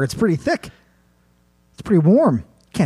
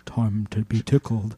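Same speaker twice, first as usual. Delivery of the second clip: lightly voiced monster, slow; a slow, mock-menacing taunt; tickling creature; 3 semitones lower, slower than usual. Teller pictures the tickler's taunt, lightly voiced slow creature. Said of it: "Yeah, oh, I picture him".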